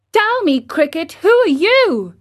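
put-on high, eager wooden boy; puppet boy Pinocchio. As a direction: ask like a curious startled puppet. Pinocchio character voice.

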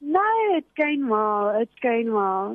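talking with food in mouth; words round a mouthful; mouth full. Real, not acted. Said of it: "Why do you answer your phone with food in your mouth".

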